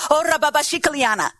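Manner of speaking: fast flowing tongues syllables; speaking in tongues. Shown as a demonstration. Preacher acts speaking in tongues at a congregant, rapid and fluent. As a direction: rattle off a quick burst of tongues. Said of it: "if I come to you and go".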